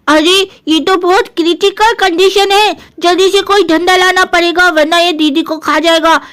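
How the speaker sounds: a hint of childish bravado; plucky little brother. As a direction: play the kid brother talking himself into rescue.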